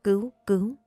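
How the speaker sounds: choked, stammering plea for help; mumbled cry for help. A narrator's reading. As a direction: gasp out help in a mild mock panic. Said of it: "Chị ta cứ ú ớ".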